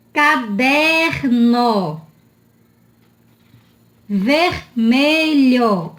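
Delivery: CADERNO and VERMELHO very slow, R held at syllable end; sounded R. Shown as a demonstration. Teacher pointing out the R, very slow syllable-by-syllable delivery. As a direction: split "Caderno" as "ca-DER-no", stretching it. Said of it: "Olha o R".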